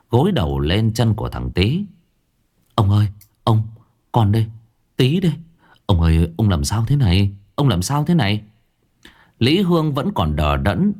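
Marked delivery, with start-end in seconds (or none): 2.7-8.4 put-on a touch of a worried young servant; anxious servant. Servant boy Tý rousing his dazed master, anxious. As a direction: gently rouse him, anxious.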